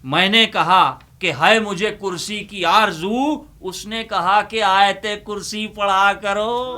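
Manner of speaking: declaiming a ghazal couplet at a mushaira pace; poem recitation. Acted. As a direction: recite it to the audience, leaning on the punchline.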